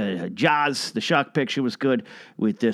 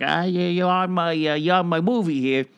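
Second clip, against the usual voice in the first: higher, hesitant imitation that slips toward Pesci; Georgie Lucas; 4 semitones higher than usual. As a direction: put on a high-pitched, halting director's voice. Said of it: "I got a high-pitched voice".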